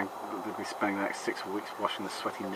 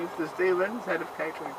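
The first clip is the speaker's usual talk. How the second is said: posh butler voice; 9 semitones higher than usual. Pretend. Playing a catering character.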